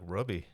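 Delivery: "Robbie" said as RUH-bee; imitating her pronunciation. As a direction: say "Robbie" with a short uh, like rub. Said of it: "just hear her accent saying it".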